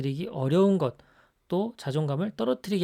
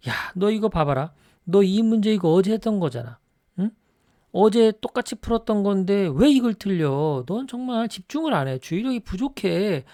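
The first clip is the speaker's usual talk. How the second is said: higher, louder nagging scold; scolding parent; 5 semitones higher, 5 dB louder than usual. Retold or imitated. Parent nagging a daughter over a test mistake, louder and higher. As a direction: pick at every mistake, voice rising in anger.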